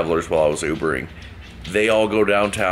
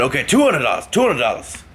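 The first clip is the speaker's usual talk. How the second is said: put-on drunk Irish mumble; 6 semitones higher, 3 dB louder than usual. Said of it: "kind of an Irish accent, but mumbling".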